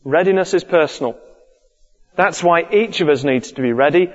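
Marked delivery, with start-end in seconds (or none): 2.7-4.1 "each of us" picked out with emphasis; stress on "each of us". Shown as a demonstration. Preacher explaining readiness is personal, stressing "each of us". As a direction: lean on the words "each of us". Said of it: "Emphasis on the each of us".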